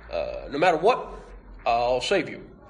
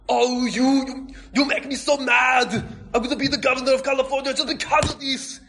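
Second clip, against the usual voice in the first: hammed-up furious shout; 9 semitones higher than usual. Misty ranting at Ash over her stolen bike, hammed-up angry yell. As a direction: rant at him like the theft is unforgivable.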